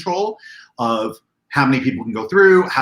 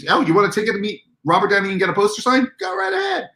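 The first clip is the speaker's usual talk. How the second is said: offhand event staffer; 8 semitones higher, faster than usual. Retold or imitated. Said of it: "That's what we gave out to people".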